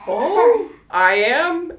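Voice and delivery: high, loud, laughing surprise; delighted disbelief; hearing she'll give birth tonight, with a laugh; happy surprise. Retold or imitated. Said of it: "And I'm like".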